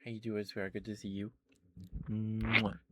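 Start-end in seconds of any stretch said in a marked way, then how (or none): 2.1-2.8 drawn-out hum into a loud smack; big, loud "mwah" kiss; blown kiss. Real, not acted. Greeting a sweetheart in chat, big smacked kiss.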